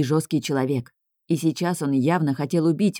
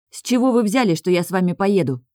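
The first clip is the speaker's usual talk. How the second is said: higher and louder, outraged protest; indignant; 3 semitones higher, 3 dB louder than usual. Acted. Girl refusing to leave with the big man, indignant. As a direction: bristle at the very idea. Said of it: "возмутилась я".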